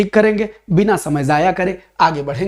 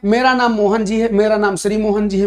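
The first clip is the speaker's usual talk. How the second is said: self-important; 2 semitones higher than usual. Shown as a demonstration. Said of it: "अपने नाम में खुद सम्मान न लगा दो".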